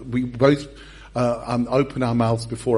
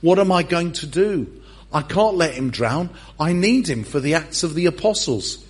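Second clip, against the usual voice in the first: mock alarm; 3 semitones higher than usual. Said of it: "Jesus looks at Pete and he thinks".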